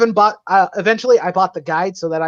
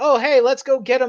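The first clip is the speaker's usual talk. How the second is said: mock peppy, upbeat voice, higher pitch; 7 semitones higher than usual. Mocking a game protagonist's attitude: imitating a peppy character. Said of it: "He's the peppy".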